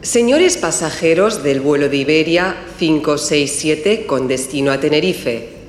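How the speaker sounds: formal public address announcement; airport announcement. Acted. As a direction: call passengers to their gate over the terminal speakers. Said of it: "Está en el aeropuerto y oye el siguiente aviso".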